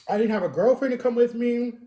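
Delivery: a real catch of tears under the words, held back; about to cry. Real, not acted. Telling viewers nobody came to his surgery, near tears. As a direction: voice on the verge of breaking, fighting it. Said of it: "why I sound like I was about to cry".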